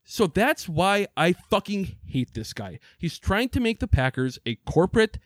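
heated rant, voice pitched well up; he's fuming about the boss, let it climb. Real, not acted. Host ranting about the team president, heated and high. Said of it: "I got heated there once again".

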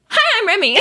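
high, perky mock hello; teasing high-pitched imitation of a friend; mimicked sudden introduction. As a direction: pop in high with a laugh behind it.

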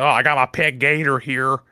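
mock Florida man voice, barely put on; Florida accent. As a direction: toss off a hint of a Florida local. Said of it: "Why did you do that in a Florida accent?".

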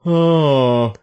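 slow, high, put-on cow lady voice; a cow complaining while milked, high and slow; man doing a woman's voice.

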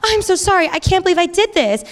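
high, over-dramatic apology; mock crying all-caps apology. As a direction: wail it like a text in all caps. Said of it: "crying in all caps".

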